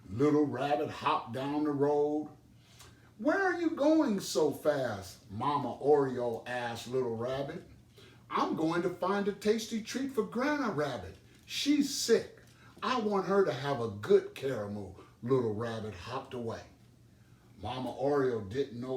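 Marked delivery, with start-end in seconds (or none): 3.2-5.2 high, louder bright call after him; a mother bird calling down from above. Acted. Mama Oriole calls to hurrying Little Rabbit, high and loud. 8.3-14.9 high, slightly louder little bunny voice; a small child full of his plan; eager Little Rabbit. Acted. Little Rabbit tells Mama Oriole his plan, high and eager.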